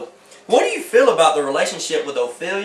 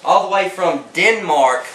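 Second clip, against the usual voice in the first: talk show host. Acted. Parody talk show host opening.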